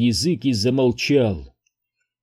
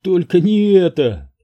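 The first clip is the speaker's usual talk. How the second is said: high, loud frightened cry; despairing wife's cry; 6 semitones higher, 4 dB louder than usual. A narrator's reading. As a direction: plead in dismay. Wife despairs.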